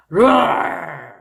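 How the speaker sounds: loud growling roar; lion roar. Shown as a demonstration. Teacher roaring like a lion to sound scary. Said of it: "무섭게 할 때".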